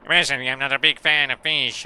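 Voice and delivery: lightly Italian-accented beaver voice. Shown as a demonstration. Streamer auditioning an Italian beaver, Italian accent. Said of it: "Do you like Italian beavers".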